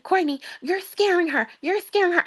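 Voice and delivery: a touch of a worried mother reining her daughter in; imitating mom begging her daughter to calm down; mom pleading. Mother scolding daughter mid-fight.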